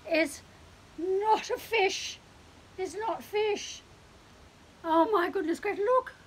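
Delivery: high, loud cat voice in outraged disbelief; a cat refusing the wrong dinner; horrified cat. Acted. Cat sees wrong dish.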